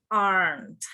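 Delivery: "Aren't" as one syllable, "arnt"; correct pronunciation. Shown as a demonstration. Teacher repeating the correction, "Aren't" in one falling syllable. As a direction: model "Aren't" with no vowel before the nt. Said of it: "We don't say".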